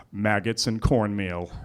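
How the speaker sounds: slow, low Scottish drawl; a hint of an eerie Scottish stranger. The stranger offering his presents, slow Scottish voice. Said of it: "and I, again".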